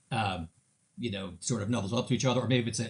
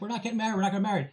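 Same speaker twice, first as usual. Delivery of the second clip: mock crying daughter; 7 semitones higher, much faster than usual. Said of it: "crying, upset".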